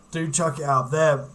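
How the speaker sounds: hiccup breaking the words. Real, not acted. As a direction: talk through hiccups. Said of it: "Oh God, I've got the hiccups".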